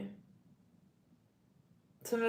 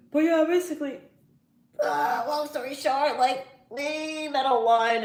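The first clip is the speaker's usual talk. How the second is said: teary voice; 7 semitones higher, 8 dB louder than usual. Real, not acted. Starts emotional personal story.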